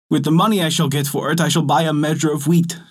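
a hint of glee, rushing ahead; delighted fisherman. Fisherman planning to sell the jar, lightly delighted and quick. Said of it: "He was delighted".

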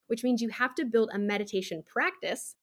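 light extra weight on the word "practice"; stress on practice. Shown as a demonstration. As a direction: lean a little on "practice". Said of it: "emphasis on the word practice there".

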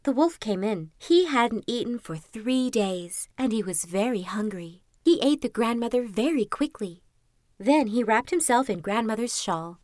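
measured, lilting storybook reading; fairy-tale narration. A narrator's reading. Narrator telling Little Red Riding Hood, storybook narration. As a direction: read it like a bedtime story.

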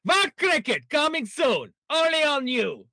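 hammed-up Indian accent for a cheap gag. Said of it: "You know, I did the accent".

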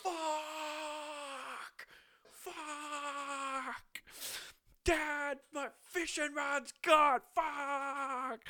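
very high, strained, crying falsetto wail; mock anguished wail. Prisoner in his cell wailing to Dad over the lost rod. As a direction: howl in hammed-up despair. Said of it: "so angry his fishing rod's gone".

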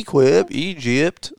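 "Equip, Egypt" with long leading EE, rising; strong E. Retold or imitated. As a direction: overdo the first vowel in Equip and Egypt. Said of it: "they would say Egypt".

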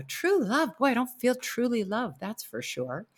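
mock-doubtful inner reply, falling away to a dry aside; sceptical retort. Sceptical inner reply to husband's quote.

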